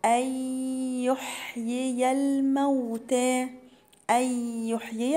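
slow, measured recitation of أولى لك فأولى; Quran recitation. Shown as a demonstration. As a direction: recite each letter with its full length. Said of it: "reciting the verse". (تلاوة مرتلة ببطء)

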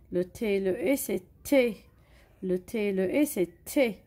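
chanted reading drill, rising on each E; teacher drilling syllables with children. Shown as a demonstration. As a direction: lead the class in rhythmic repetition. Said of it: "Alors, regardez".

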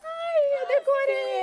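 high, loud, tearful outburst; real crying joy, voice breaking high; choked up crying to her guests; overcome with emotion. Real, not acted. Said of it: "eu tô tremendo".

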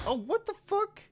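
very high, loud shock; real high-pitched disbelief; startled outburst. Real, not acted. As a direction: yelp it out in sudden alarm. Startled reaction to the game.

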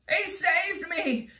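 high, drawn-out amazed exclamation; gasped. A narrator's reading. Rescued centipede tells the others, gasping. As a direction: gush it with relief. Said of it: "gasped the centipede".

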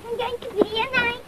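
quiet gloating. Acted. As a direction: gloat softly to herself.

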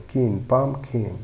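slowed right down, syllable by syllable; teacher sounding out পামকিন slowly; slow syllable demo. Shown as a demonstration. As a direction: draw out পামকিন as পাম then কিন. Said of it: "P U M P, পাম".

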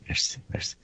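breathy whisper, barely audible; whispered thanks. Real, not acted. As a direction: whisper your thanks as an aside. Host's quiet thanks off-mic.

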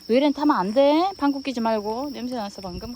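loud firm order to the dog; firm command. Real, not acted. Owner forbids the dog from climbing, loud firm order. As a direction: bark the rule out sharply.

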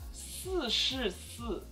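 四 said slowly with the tongue behind the teeth; careful Mandarin 四. Shown as a demonstration. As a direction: give 四 a clear s, no lisp. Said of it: "Don't put your tongue between your teeth".

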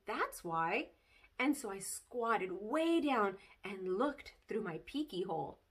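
put-on lively read-aloud of a kid's chapter book; bouncy child-narrator storytelling; story reading. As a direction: tell it like a bedtime story to children. Reads Junie B. story aloud.

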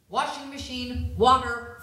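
ordinary talk, nothing marked

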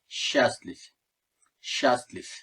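"счастлив" stressed on its first syllable, СЧА; open, stressed A at the start of "счастлив". Shown as a demonstration. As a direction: say "счастлив" as SHAS-leef, ending on F. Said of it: "vurgu a'nın üzerinde".

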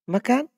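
Makan with a rising end like a question; Selayar-style rising tune on Makan. Shown as a demonstration. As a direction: say Makan as a command but rising like you are asking. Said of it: "Tapi seperti bertanya".

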